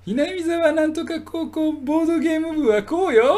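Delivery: high, loud anime schoolgirl; mock an anime heroine; anime girl voice. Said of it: "みたいな".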